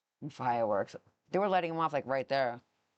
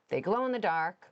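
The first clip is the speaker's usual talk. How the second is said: salesman voice. Real, not acted. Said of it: "in that salesman voice again".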